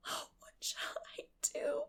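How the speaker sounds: breathless, high whispered despair. Acted. Girl near tears, whispered despair. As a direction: gasp it out helplessly.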